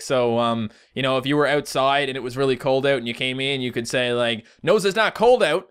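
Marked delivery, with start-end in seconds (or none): 4.6-5.7 loud, high, sarcastic Newfoundland accent. Shown as a demonstration. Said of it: "are also really sarcastic".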